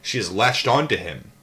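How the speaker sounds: steady read-aloud narration; calm audiobook-style reading; book reading. A narrator's reading. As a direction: read the memoir aloud evenly.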